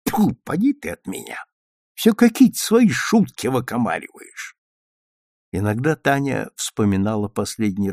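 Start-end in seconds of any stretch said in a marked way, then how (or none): 0.1-4.6 mock scolding. A narrator's reading. Grandmother waves her off.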